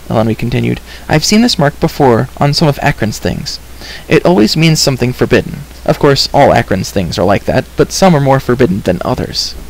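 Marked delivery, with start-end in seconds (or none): 1.1-9.5 lightly voiced solemn girl, explaining; a hint of a serious young heroine; earnest girl character.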